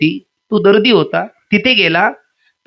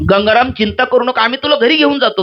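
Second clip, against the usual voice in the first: villagers soothing; 6 semitones higher than usual. Retold or imitated. Villagers reassure Gangaram.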